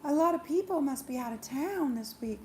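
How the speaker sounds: lightly acted flustered pleading; panicking. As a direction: cover panic with a high, sing-song excuse. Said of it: "panicking, like".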